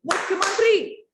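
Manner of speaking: high, loud call; king summoning. Acted. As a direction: shout for the minister. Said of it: "राजा ने मुख्यमंत्री को बुलाया". (ज़ोर से बुलाते राजा)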